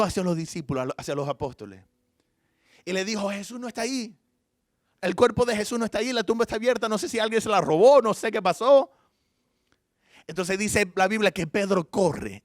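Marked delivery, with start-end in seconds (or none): 3.3-8.9 higher, breathless rush of alarming news; urgent excited report. Acted. Mary telling the apostles the tomb is empty, urgent and alarmed. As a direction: blurt it out, alarmed and hurried. Mary running to tell disciples.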